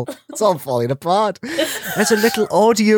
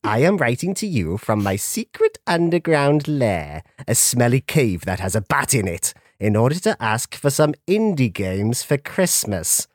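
lightly voiced spooky skeleton; a hint of a theatrical ghoul; 4 semitones lower than usual. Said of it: "it is I, Doctor Ichabod".

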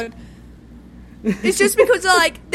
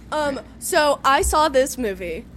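storytelling in a put-on American accent; attempted American accent. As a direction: try to tell it like an American. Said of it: "I'm gonna attempt an American accent".

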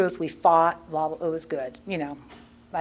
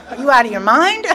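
high, loud mock outrage with a laugh; incredulous protest; 5 semitones higher, 6 dB louder than usual. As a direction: throw it back at them in comic disbelief. Retold protest against sponsor's order.

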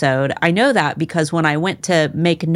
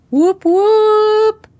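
high, loud celebratory whoop; excited whoop; 6 dB louder than usual. Real, not acted. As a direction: cheer it out. Excited cheer at episode start.

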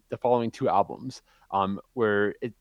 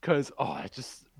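out of breath; 4 semitones higher than usual. Real, not acted. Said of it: "I'm winded".

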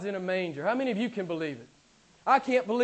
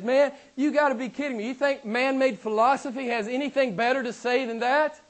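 raised, rhetorical disbelief; incredulous challenge; 4 semitones higher than usual. Acted. Preacher voicing Paul challenging man-made religion, incredulous. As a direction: challenge them as if the idea is absurd.

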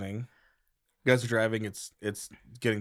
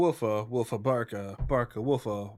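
singsong barka woofa chant; dog babble. Acted. Player voices the dog answering, a playful dog babble.

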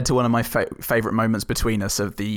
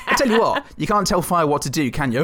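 laughing quote; 4 semitones higher than usual. Retold or imitated. Quoting Pacino's line while laughing.

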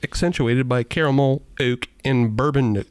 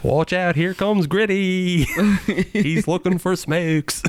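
put-on Philly accent; 6 semitones higher, slower than usual. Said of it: "this is the Philly accent".

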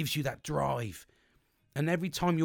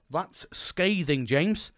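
slow, stunned; 3 semitones higher, 4 dB louder, much slower than usual. Retold or imitated. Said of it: "I reread it and go".

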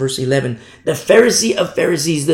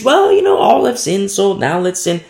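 high mock-casual excuse-maker; 5 semitones higher, 4 dB louder than usual. Preacher mocks those who excuse sin, high mocking tone. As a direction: ham up a lazy sinner's shrug. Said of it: "That's not to use it as an excuse".

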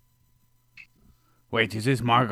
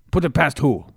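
sudden loud, high question; mock confused shout; 5 semitones higher, 7 dB louder than usual. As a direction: blurt it in put-on voice.

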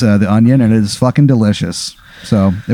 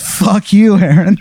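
mock snarl; 8 semitones higher, slower than usual. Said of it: "he turns around and he goes".

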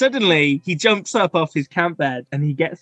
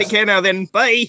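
put-on Scottish kid; 5 semitones higher than usual. GM voices the kid.

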